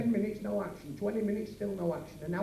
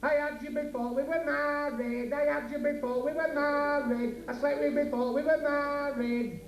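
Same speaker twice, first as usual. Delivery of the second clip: mock drunken shouting; 5 semitones higher than usual. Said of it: "He started shouting".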